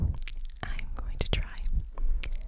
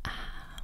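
refreshed sigh after sipping; 8 dB quieter than usual. Pretend. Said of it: "make some drinking noises with".

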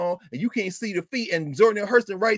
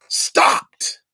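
breathy unvoiced whisper, voice catching; choked whisper; 6 dB louder than usual. Old man recalls never stopping, whispering as if crying. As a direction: let the word break into a whispered sob. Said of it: "Let me take my shoes off".

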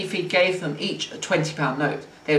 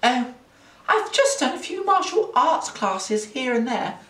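put-on high, airy girl's voice; higher-pitched, casual fib; a little unconvincing; 8 semitones higher than usual. A narrator's reading. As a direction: brush it off, not quite convincingly. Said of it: "a little unconvincingly".

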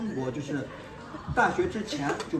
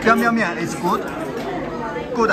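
Chinese-style English; 6 semitones higher, 6 dB louder, much slower than usual. Real, not acted. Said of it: "用我的中式英文".

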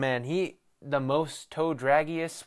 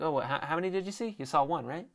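mocking fan; 3 semitones higher, 3 dB quieter, faster than usual. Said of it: "it's like".

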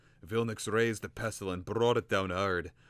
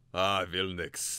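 gentle; 4 dB louder, slower than usual. Acted. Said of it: "continued more gently".

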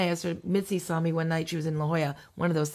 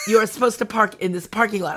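louder, teasing scold; mock scolding; 6 dB louder than usual. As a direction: scold her like a know-it-all. Bobby Lee voiced, telling her.

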